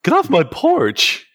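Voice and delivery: put-on high cranky old-man yell; slow, high shout off the porch; shouting at trespasser.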